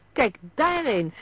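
high, loud, stretched shout; urgent, slow-stretched cry; alarmed call. A narrator's reading. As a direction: call everyone's attention, drawing it out. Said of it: "riep Story".

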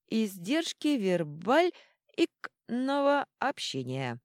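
slow, hiccup breaking the word; drunken hiccuping. Acted. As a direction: drag it out, hiccuping. Drunk jester hiccups mid-word. (медленно, пьяно, с икотой)

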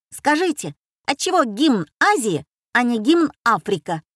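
звонко и громко выкрикнуть вопрос; влетел и громко закричал; громкий крик мальчишки. Acted. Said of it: "громко закричал". (громко, по-детски звонко)

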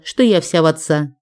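usual speaking voice

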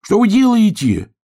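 a hare demanding an answer; loud high cry; alarmed shout. A narrator's reading. Hare squealing at silent players.

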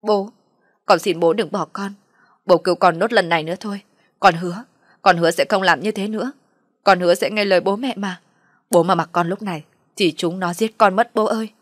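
loud, urgent begging; mildly panicked son's plea; panicked pleading. Acted. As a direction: beg father in a fluster. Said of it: "hốt hoảng nói".

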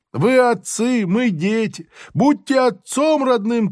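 high pleading cry of a convict; crying prisoner. Acted. Convict begging the officer for mercy, high pleading cry. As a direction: beg him like a father for mercy. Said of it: "кричит арестант".

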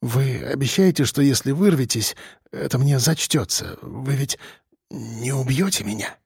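timid whisper plea; pleading murmur. A narrator's reading. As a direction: beg quietly for mercy. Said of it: "пролепетал он".

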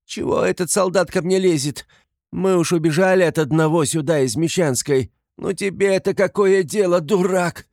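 high, loud berating; indignant crying out. A narrator's reading. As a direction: lash out at the soldier in a high voice. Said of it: "закричала она чиновнику". (возмущённо кричит, высоким голосом)

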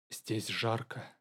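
soft, slow near-whisper. A narrator's reading. Flustered young man answering the woman, slow whisper. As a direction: breathe it out barely audible. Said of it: "прошептал он".

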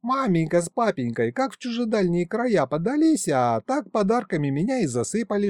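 голосок повыше, хвастливо и бойко; расхвастайся, как простоватая девчонка; бойкая юная Кикимора. Acted. (молодая Кикимора хвастается царю, голос повыше)

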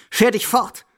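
high angry dismissal; sending away. Acted. Grandmother chasing her companion away, angrily. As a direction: throw him out with one sharp cry.

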